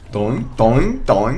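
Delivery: playful imitated boing sounds; bouncing noise. Player mimics the little creature running along, playful boings. Imite le petit bonhomme qui court.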